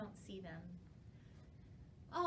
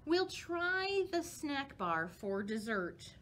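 put-on unhurried read-aloud for little kids; storybook reading; slower than usual. A narrator's reading. Librarian reads a bat story to children, gentle read-aloud.

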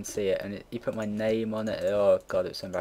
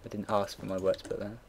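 much softer mock-angry retort under the breath; muttered retort; 7 dB quieter than usual. Retort to the shouting photography teacher, muttered quietly. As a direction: grumble it back so nobody hears. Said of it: "I was like".

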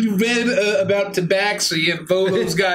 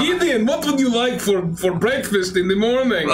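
put-on lilting Eastern European accent; 4 semitones higher than usual. Prompting Gideon to speak, Eastern European accent. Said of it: "you now speak with an Eastern European accent".

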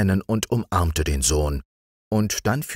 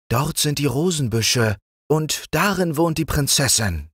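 lightly higher, patient frog; a wise little frog, voiced higher; green frog's voice; 11 semitones higher than usual. A narrator's reading. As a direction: frog advising the king on the road, higher voice. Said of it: "sagte der grüne Frosch".

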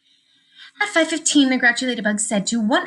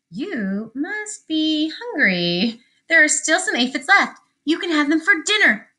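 friendly ladybug voice; 7 semitones higher than usual. Acted. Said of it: "who was friendly".

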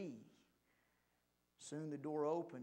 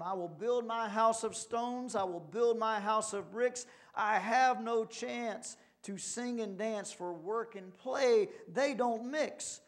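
raised, louder storybook pig voice; calling down; 5 semitones higher, 6 dB louder than usual. A narrator's reading. Working pig to his idle brothers, calling down. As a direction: call down firmly, drawing out the last lines. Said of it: "as he called down to them".

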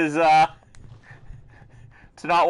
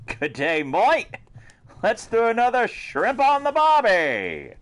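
higher-pitched, hammed-up Aussie greeting; mock Australian accent; 6 semitones higher than usual. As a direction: put on a playful Australian accent. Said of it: "That's a lovely accent you have".

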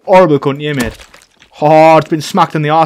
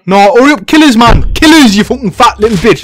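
angry taunt; 4 semitones higher, 6 dB louder than usual. Real, not acted. Taunting enemy to kill him.

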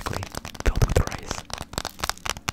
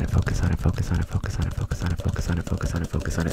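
rapid repeated focus commands; quick insistent trigger phrase; fast aggressive asmr; faster than usual. Acted.

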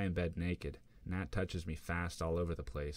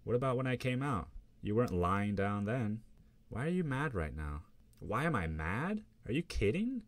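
higher, louder disbelief; heated argument; 5 semitones higher, 3 dB louder than usual. Acted. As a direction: pick the fight.

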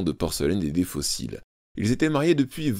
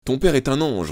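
sniffling mother; 7 semitones higher, 4 dB louder than usual. A narrator's reading. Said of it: "renifla madame Elliot".

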